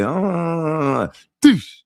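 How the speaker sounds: imitated drawn-out effort, then a sharp thud; mimed jamming something into place; dentist sound effect. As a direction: hold a long "uh", then burst out "doosh". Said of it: "it looked like a dentist just said".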